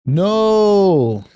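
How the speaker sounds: put-on one courteous word in a German accent, lifted high; Einstein's German-sounding no; polite German no. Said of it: "A nice German sounding no. Very polite".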